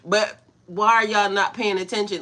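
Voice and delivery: loud, exasperated mock plea to the crowd; half-laughing mock exasperation; exasperated aside. Vlogger retelling her reaction to the church crowd, exasperated. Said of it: "I'm like".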